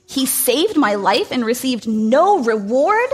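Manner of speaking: a king storming at the injustice; king storms in disbelief; stormed. Acted. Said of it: "stormed the king".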